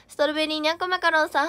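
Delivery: usual speaking voice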